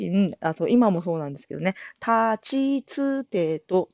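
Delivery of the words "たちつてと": たちつてと spoken very slowly, each kana apart; slow careful たちつてと drill; slow syllables. Shown as a demonstration. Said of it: "つが苦手なんです".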